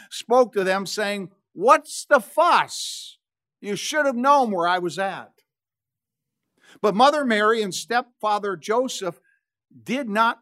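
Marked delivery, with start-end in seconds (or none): 1.5-5.4 preteen attitude. Acted. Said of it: "this twelve-year-old with an attitude".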